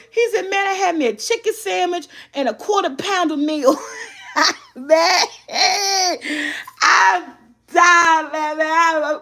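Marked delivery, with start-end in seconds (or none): 0.5-3.9 laughing. Retold or imitated. Son's story retold amid laughter. 4.8-9.2 can barely get the words out for laughing. Real, not acted. Mom losing it over the stolen sandwich, laughing.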